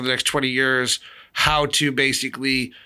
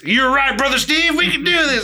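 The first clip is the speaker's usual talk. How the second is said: high, louder hammed-up redneck voice; mock redneck villain; 10 semitones higher, 4 dB louder than usual. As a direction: play a dumb hillbilly villain. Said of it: "two random redneck villains".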